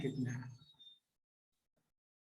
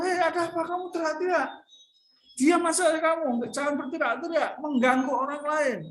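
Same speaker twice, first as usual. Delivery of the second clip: higher annoyed scolding, fast at first; the crowd scolding the noisy beggar, higher and annoyed; 6 semitones higher than usual. Acted. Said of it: "dimarahi oleh banyak orang".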